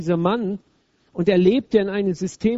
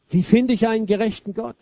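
a higher, louder cry of anguish; Luthers Aufschrei; 4 semitones higher, 4 dB louder than usual. Retold or imitated. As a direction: cry out the question to God. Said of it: "Was Luther geschrien hat". (lauter, verzweifelter Ruf nach Gott)

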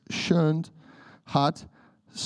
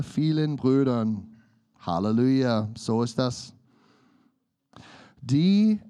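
scripture reading. Acted. Reads scripture aloud.

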